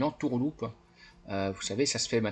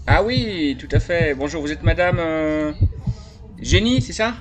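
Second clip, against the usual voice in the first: a lightly voiced eager buyer, louder and higher; naive buyer voice; 6 semitones higher, 5 dB louder than usual. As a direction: play the friendly gullible buyer, a bit louder. Plays naive buyer on phone.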